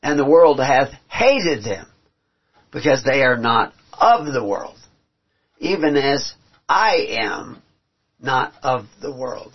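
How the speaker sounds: solemn scripture read aloud. Acted.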